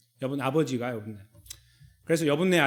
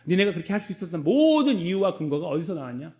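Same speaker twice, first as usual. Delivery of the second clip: God's challenge. Retold or imitated. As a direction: ask it as God rebuking. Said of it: "이렇게 말씀하고 있고". (하나님이 꾸짖듯 묻는 목소리)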